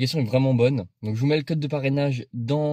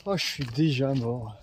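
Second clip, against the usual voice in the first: out of breath; slower than usual. Real, not acted. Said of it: "je suis essoufflé".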